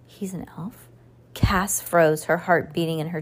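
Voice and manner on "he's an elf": breathless whispered gasp of shock; stunned whisper. Acted. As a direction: whisper it, barely believing.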